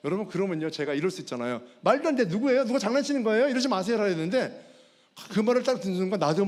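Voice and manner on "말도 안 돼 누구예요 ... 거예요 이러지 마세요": higher, raised-voice indignant questioning; mock-indignant, pitched up; disbelieving protest. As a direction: act out refusing to believe it.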